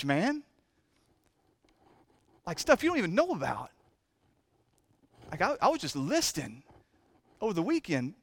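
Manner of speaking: choked up. Real, not acted. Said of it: "dang, I knew I wasn't gonna cry today".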